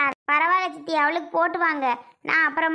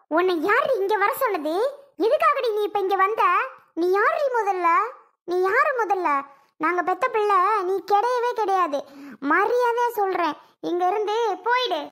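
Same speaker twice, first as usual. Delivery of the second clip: angry scolding. Acted. Mother throws daughter out.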